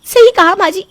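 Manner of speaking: high, loud tearful wail, slowing down; hammed-up sobbing shout of injured innocence; fake crying outburst. Daughter-in-law fakes tears before husband against mother-in-law, loud tearful wail.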